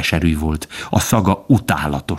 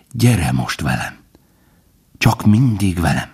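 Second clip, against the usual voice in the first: heartfelt. A narrator's reading. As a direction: coax him along gently. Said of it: "szívrehatóan folytatta".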